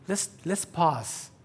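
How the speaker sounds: put-on high, slow kid voice; child drawing it out. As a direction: stretch it like a sly little boy. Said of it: "Halfway through the book".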